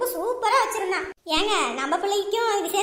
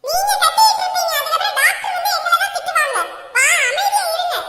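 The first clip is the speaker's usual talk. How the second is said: loud shushing; 7 semitones higher, 4 dB louder than usual. Acted. Relative loudly shushing the patient.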